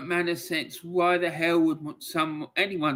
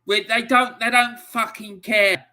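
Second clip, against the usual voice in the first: raised, furious voice, pitch jumping up; angry outburst; 5 semitones higher, 5 dB louder than usual. Real, not acted. Streamer raging at politicians over Hillsborough, furious shout. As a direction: let the anger burst out at them. Ranting about Hillsborough cover-up.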